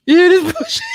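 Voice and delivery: high, loud incredulous shout; laughing disbelief. Real, not acted. Co-host appealing to a third man about this bullshit, shrieking laughing disbelief. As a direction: squeal it out through laughter, rising at the end.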